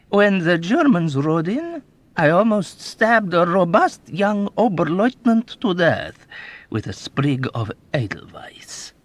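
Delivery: put-on high, loud, gleeful old man's boasting; old rogue bragging to a young officer; sly old man. A narrator's reading. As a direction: relish every wicked memory. Old man mocking impartiality.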